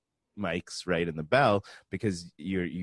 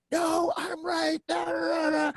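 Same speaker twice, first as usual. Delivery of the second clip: high, slow, loud insistent yell; stubborn shout; 4 dB louder than usual. Retold or imitated. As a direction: shout him down, not giving an inch. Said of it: "the sound tech just losing it on me".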